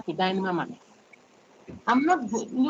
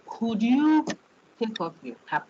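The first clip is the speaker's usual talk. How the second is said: polite request; 4 semitones higher, slower than usual. Shown as a demonstration. Lecturer showing a polite request to a student. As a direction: ask it as a courteous favour. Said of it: "It's as if I'm asking you".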